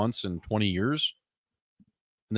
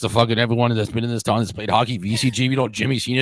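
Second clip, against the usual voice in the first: put-on louder Boston accent, name-dropping hometown guys; 5 dB louder than usual. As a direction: boast about the neighborhood in a Boston accent. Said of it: "we're just doing Boston, Boston accents".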